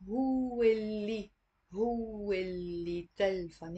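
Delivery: هو اللي run together as hu-li; with liaison. Shown as a demonstration. Teacher showing the linked هو اللي. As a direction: link هو into اللي. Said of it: "say it with a liaison".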